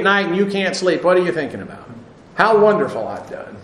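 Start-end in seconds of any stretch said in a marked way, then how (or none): 2.3-3.5 mock boast. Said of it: "No, generally not".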